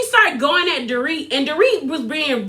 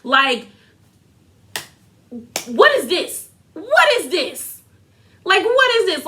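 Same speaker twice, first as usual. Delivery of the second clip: exasperated disbelief; 4 semitones higher than usual. Real, not acted. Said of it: "And I'm like".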